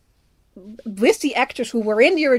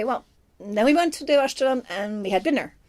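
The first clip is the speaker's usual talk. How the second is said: natural, lived-in reading of the line; living in the line. Shown as a demonstration. Film fan showing how an actor owns a line, living in it. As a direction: say it as if the words are your own. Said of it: "that's sort of living in the line".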